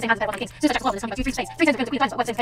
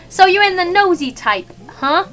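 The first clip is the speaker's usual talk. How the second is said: gruff chef; 7 semitones higher, 5 dB louder than usual. Acted. Chef voiced.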